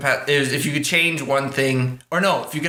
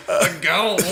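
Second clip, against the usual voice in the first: put-on Scottish accent; 3 semitones higher than usual. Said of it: "It sounds like it hurts to talk".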